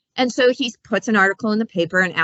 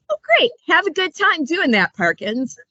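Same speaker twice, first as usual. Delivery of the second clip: mock British gentleman; 8 semitones higher than usual. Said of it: "the perfect story for some British gentleman".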